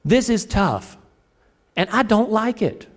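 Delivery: half-playful frustrated plea; frustrated prayer. Retold or imitated. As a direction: act out a fed-up prayer. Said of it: "you have prayed and said".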